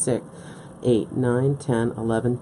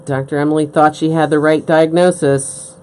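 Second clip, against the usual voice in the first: louder dramatic voice-over, leaning on "thought"; mock medical-drama narrator; 6 dB louder than usual. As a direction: announce it like a soap-opera teaser, punching "thought". Mock TV-drama line about herself.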